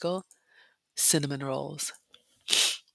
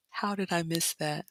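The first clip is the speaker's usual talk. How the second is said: softer, hushed regretful question; hushed lament; 7 dB quieter than usual. Real, not acted. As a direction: murmur it to yourself in regret. Repeats lament quieter.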